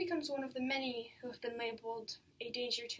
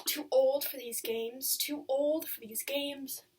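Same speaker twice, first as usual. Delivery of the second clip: slow, emphatic refrain in a friend's voice; Agnes's remembered voice; 4 dB louder, slower than usual. Acted. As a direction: cut in firmly, stretching each word. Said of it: "It's Agnes's voice I hear, not my own".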